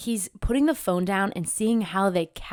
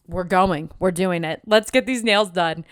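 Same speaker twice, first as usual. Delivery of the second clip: excited; 6 dB louder than usual. Retold or imitated. Excited at getting seat.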